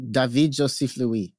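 "David Joseph Louis" said slowly in French; French pronunciation. Shown as a demonstration. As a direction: pronounce "David Joseph Louis" as French, Da-veed Jo-seef Loo-ee. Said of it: "Jordan's real name is French".

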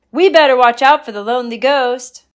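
high loud frightened chant; all say it together, spooked; scared chorus. Acted. Girls repeat the warning together.

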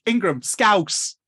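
loud, high, drawn-out mock call; mock drunken call-out. Drunk friends demanding an accent trick, mock call-out. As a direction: call it out slowly like a rowdy friend. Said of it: "everyone would be like".

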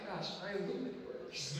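soft laughing self-reproach. Retold or imitated. Lying in bed, scolding himself under his breath. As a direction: laugh quietly at yourself. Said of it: "I'm like".

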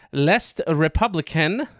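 French name in a mild French accent; first French attempt. Shown as a demonstration. Host attempting French newspaper name, mild French accent. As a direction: attempt L'Est Républicain with a light French accent. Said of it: "that one was way better".

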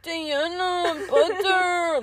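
put-on high loud little kid shout; little nephew calling. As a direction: call the cat like a four-year-old. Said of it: "I'm like".

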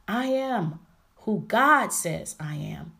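slow, stretched "I am", then a strong "God"; emphatic declaration. Shown as a demonstration. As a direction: declare it slowly, leaning on "I am" and "God". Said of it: "putting the emphasis on".

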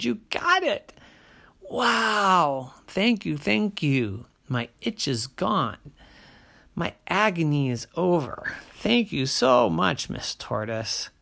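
high, joyful thanks; overjoyed grateful bear; relieved bear. Acted.

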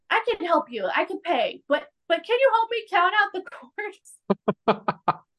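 high-pitched, hammed-up dim-boy voice; mocking Archie. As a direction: imitate an over-eager, clueless helper. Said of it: "couldn't help but come for Archie".

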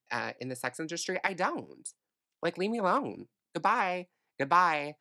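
fed up, pushing everyone away; exasperated rant. Real, not acted.

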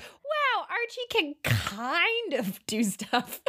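drawn-out, high-starting wow of faint praise; mock amazement. Friend admitting Archie managed one thing, mock amazement. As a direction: act impressed by very little, slowly.

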